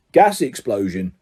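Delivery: low, slow grunt of two words. Acted. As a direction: grunt it flatly. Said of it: "grunted Ernie".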